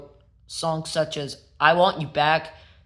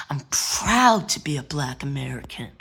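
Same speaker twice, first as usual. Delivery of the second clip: whisper. Retold or imitated. Quoting Michael.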